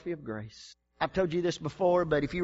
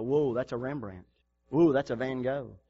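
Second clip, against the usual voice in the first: museum-goer awe; 5 semitones lower than usual. Retold or imitated. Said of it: "people go through art museums".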